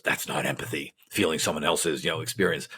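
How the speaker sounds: low, quiet disdain; disdainful. Retold or imitated. Professor rejecting the trainee's idea of empathy, disdainful. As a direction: imitate a professor's soft, low-pitched dismissal. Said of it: "looked at me with disdain".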